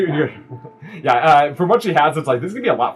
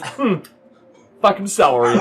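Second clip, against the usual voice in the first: grumbled curse under a laugh; a sulky cook muttering his complaint; grumbling cook; 7 semitones higher, 3 dB louder than usual. Acted. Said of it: "the one without the beard just kinda goes".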